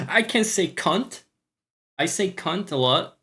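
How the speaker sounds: leaning into a Scottish twang; Scottish accent. Pretend. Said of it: "the accent".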